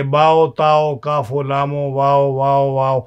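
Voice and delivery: باؤ، لامو، کافو each letter closed with an o sound; poetic o ending. Shown as a demonstration. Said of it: "تو ایسے پڑھیں گے". (او کے ساتھ حروف پڑھنا)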